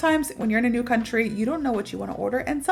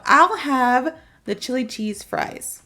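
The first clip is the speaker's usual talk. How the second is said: slow, clear "I'll have the chili cheese fries"; model sentence for repeating; 2 semitones higher, 4 dB louder, slower than usual. Shown as a demonstration. Teacher models the order for students to repeat slowly. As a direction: say it slowly so students can copy.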